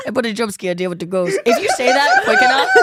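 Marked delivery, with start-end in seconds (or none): 0.1-1.4 put-on lower, laughing New York accent. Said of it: "heavy New York accent".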